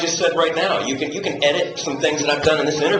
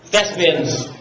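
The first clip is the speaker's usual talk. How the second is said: pompous director; 7 semitones lower than usual. Retold or imitated. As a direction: address the cast with theatrical self-importance. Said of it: "who says things like".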